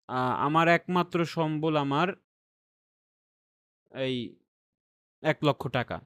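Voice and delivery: "একমাত্র" drawn out and lifted, slowly; stress on একমাত্র. Shown as a demonstration. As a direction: lean on "একমাত্র" to show the emphasis. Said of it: "একমাত্র দিয়ে যে আমি কথাটাকে এমফাসিস করলাম".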